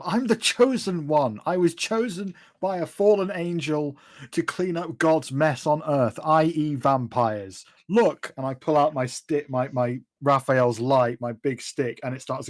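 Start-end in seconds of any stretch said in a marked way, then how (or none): 0.0-7.7 exasperated proclamation. Acted. Chosen one explains herself to doubtful Felix, exasperated. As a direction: spell it out with mild exasperation.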